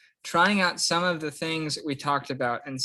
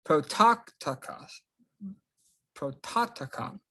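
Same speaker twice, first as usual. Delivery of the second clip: "Prototokon" as pro-TOT-o-kon; accent on middle omicron; 5 semitones higher than usual. Shown as a demonstration. Teacher gives students the word, "Prototokon" stressed on TOT. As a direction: stress the second syllable of "Prototokon". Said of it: "middle Omicron is the one that has the accent".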